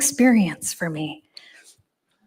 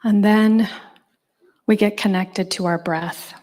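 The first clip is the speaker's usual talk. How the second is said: guided meditation. Acted. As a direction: ease the room into stillness. Leads seated meditation instructions.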